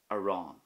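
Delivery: "Aráin" with a quick first a and a long, stressed "rawn"; stress on the fada. Shown as a demonstration. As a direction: lean on the á in "Aráin". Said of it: "hear the stress and focus on the fada".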